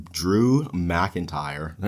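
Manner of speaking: very slow, picking out each syllable of Drew McIntyre; carefully slowed name after a stumble. Shown as a demonstration. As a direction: spell out "Drew McIntyre" slowly so you don't trip. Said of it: "easy for me to say".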